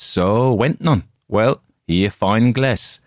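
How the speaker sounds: grating optician pressing his glass; harsh peddler. A narrator's reading. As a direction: sneer it out, pushy and loud. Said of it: "With a harsh, disagreeable laugh".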